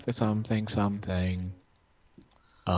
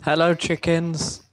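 cutesy greeting; 6 semitones higher than usual. Pretend. Greeting the chickens.

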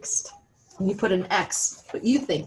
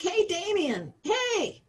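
calling across the pool; 11 semitones higher, slower than usual. A narrator's reading. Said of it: "And he's like".

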